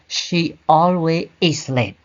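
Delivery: slow careful example of the wrong order; wrong sentence. Shown as a demonstration. Teacher showing students the wrong order, slow and deliberate. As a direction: say it slowly as the mistake to avoid. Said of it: "we don't say".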